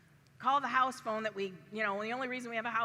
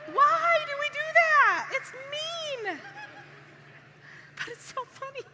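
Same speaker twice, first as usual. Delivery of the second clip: laughing; 7 dB louder, slower than usual. Real, not acted. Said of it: "I don't know why I'm laughing".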